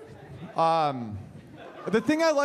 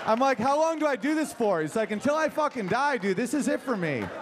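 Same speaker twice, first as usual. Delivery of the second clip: eager higher dog voice; 4 semitones higher than usual. Pretend.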